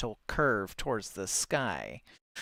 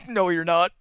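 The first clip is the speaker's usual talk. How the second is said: cackling; 6 semitones higher, 8 dB louder than usual. Acted. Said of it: "cackled the vendor".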